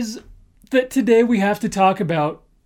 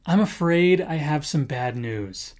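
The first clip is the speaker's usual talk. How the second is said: soft, lower sorry-to-tell-you tone; softer lower bad-news opener; gentle delivery; 3 semitones lower, 4 dB quieter than usual. Shown as a demonstration. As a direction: break it gently. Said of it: "a good way to preface your statement is by saying".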